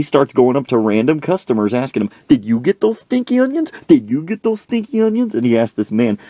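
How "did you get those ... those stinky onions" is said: high-pitched, hammed-up questioning; pestering demand. Coach accosting a woman, high pestering demand. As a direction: interrogate in a pushed-up voice.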